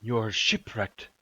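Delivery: slow, drawn-out castaway voice; a wary castaway slowly opening up; in-character, stretched-out wondering delivery; marooned stranger. Acted. Game master voices marooned stranger.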